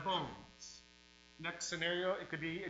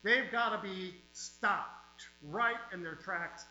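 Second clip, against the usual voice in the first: fiery pulpit preaching, hammering each line. Real, not acted. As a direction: revival preacher warning the flock. Preaching at full force.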